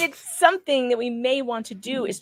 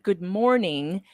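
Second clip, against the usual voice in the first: slow quote; slower than usual. Retold or imitated. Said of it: "He said".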